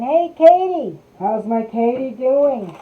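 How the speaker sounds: a delighted call to a friend; excited greeting. Real, not acted. Greeting a viewer joining live.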